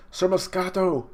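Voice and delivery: high, drawn-out mock wail; acted dismay; alarmed cry. Characters cry out at death.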